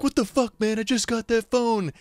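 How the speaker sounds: outraged disbelief. Retold or imitated. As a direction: pitch it way up like he can't believe it. Friend's phone thrown out window.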